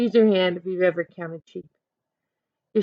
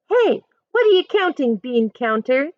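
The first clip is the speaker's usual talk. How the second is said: higher, louder teasing yell; kids yelling; 5 semitones higher, 5 dB louder than usual. Acted. Schoolkids tease Amanda across the playground, playful yell. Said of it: "they yell".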